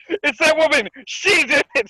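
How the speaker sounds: accusing. Retold or imitated. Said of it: "She's like".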